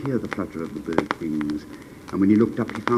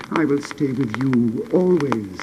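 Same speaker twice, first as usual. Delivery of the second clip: slow, louder loyal promise; tender vow; 5 semitones higher, 5 dB louder, slower than usual. Acted. Swallow vowing to stay with the prince, slow and tender. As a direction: say it slowly and devotedly.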